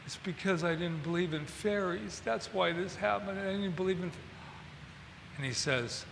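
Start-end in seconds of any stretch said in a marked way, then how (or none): 0.1-4.2 soft, regretful murmured confession; hushed and remorseful, trailing off; subdued Peter Pan. Retold or imitated. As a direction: say it softly, as if to yourself. Acting a grieving Peter Pan.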